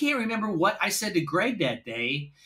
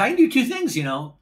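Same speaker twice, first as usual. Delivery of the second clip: mock boastful Vic; 7 semitones higher than usual. Retold boast repeated, mocking.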